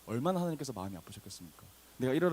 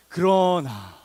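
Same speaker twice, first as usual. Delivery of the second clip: loud, drawn-out turning word; emphatic proclamation; 3 semitones higher, 11 dB louder, much slower than usual. Acted. Preacher announces the verse's turning point, loud proclamation. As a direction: proclaim it at full voice.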